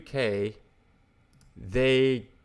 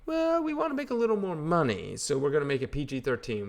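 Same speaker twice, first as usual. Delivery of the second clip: higher, mocking voice of a greedy studio boss; mocking studio exec; 4 semitones higher than usual. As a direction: ham up the money-hungry studio suit. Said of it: "What do they do with the third one?".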